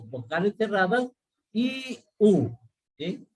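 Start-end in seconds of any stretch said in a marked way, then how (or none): 1.5-2.5 long, higher "I, U", mouth nearly closed; exaggerated closed vowels. Shown as a demonstration. Teacher demonstrating closed vowels to students, exaggerated and drawn out. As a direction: stretch "I" and "U" as separate tight vowels. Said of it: "son los ejercicios que uno tiene que realizar".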